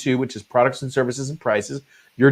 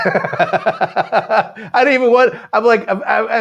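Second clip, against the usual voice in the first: laughing; 10 semitones higher, 4 dB louder, much slower than usual. Real, not acted. Laughing at own story.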